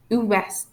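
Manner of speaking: French "ouest" with the final T sounded; pronounced T. Shown as a demonstration. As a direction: let the T be heard ending "ouest". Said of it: "we pronounce the letters D and T".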